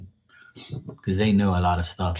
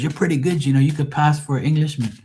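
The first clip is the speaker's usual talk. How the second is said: imitated Scouse foreman, pitched higher; Liverpool accent; 6 semitones higher than usual. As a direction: concede it in a put-on Liverpool accent. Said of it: "he was from Liverpool in England".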